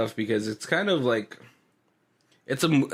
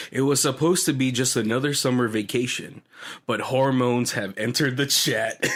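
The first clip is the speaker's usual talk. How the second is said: lightly voiced trailer narrator; movie trailer voice. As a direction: deliver it as a tongue-in-cheek film promo. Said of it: "movie trailers".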